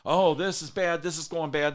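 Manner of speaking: lightly acted griping, starting loud and high; imitated complainer. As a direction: complain like a worried grumbler. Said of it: "these are the biggest complainers".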